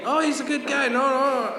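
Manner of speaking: high-pitched imitated friend jumping to defend; retold protest, pitched well up; mock reassurance. Friend defends his buddy Ian, high mock reassurance.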